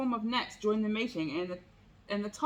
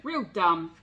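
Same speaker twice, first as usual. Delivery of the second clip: snarling bobcat; 3 semitones lower, 6 dB louder than usual. Acted. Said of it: "snarled a bobcat".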